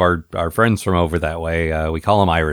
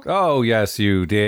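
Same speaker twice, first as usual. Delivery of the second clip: pantomime audience call; much slower than usual. Acted. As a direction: shout back like a panto crowd. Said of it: "call and response stuff".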